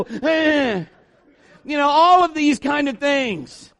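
whiny, shouted grumbling of a sick man; complaining Naaman. Acted. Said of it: "Naaman's probably at this point".

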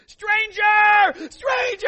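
high, very loud mock scream; full-volume imitation of a screaming boy; child's panicked scream. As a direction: scream like a kid raising the alarm. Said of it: "he's screaming".

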